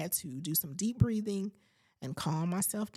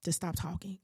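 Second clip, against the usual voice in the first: firm request; 4 dB quieter, faster than usual. Retold or imitated. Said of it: "I said".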